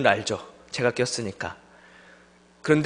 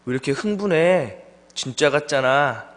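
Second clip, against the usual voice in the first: teasing jab. Retold or imitated. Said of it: "한마디 더 던집니다".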